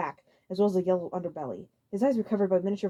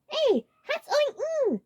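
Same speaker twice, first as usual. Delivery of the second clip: very high, loud alarm; alarmed cry; panicked; 5 dB louder, much slower than usual. A narrator's reading. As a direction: shriek in confusion. Lemmy garbled, panicking.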